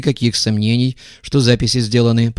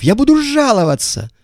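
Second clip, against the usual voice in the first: high, loud squeal; squealing shriek; 4 dB louder than usual. A narrator's reading. Иванов protesting the search, squealing shriek. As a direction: shriek it in outrage. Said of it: "завизжал Иванов".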